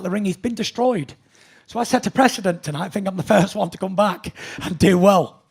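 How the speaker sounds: loud, proud champion bragging; cocky breathless boxer boasts. Real, not acted. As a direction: boast it, chest out, still winded. Boxer boasting after the fight.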